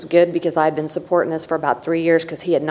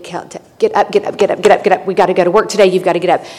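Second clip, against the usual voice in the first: louder, insistent "get up, get up"; retold nagging wake-up; 5 dB louder than usual. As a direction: hammer him out of bed, building louder. Nagging sleeping husband awake.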